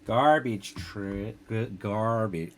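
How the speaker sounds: slow, drawn-out American accent attempt; bad American accent. Retrying the American accent on garbage, slowly. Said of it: "worst American accent".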